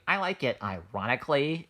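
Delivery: lightly put-on millennial voice; a hint of ironic millennial condescension. Explaining why the phrase sounds condescending, light millennial voice. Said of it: "say that in the millennial voice".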